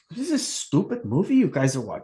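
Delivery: a light put-on German accent. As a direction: mimic the girlfriend with a hint of German. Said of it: "I don't know why I did that".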